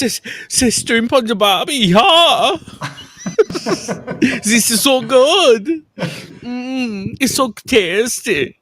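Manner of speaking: high mock Aussie voice. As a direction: squeal it like a silly Aussie. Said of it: "is that still Aussie".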